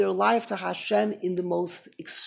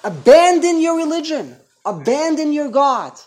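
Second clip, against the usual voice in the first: shouted, much higher persecutors' demand; mock demand; 7 semitones higher, 10 dB louder than usual. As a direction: bark the order to give up their faith. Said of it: "are demanding".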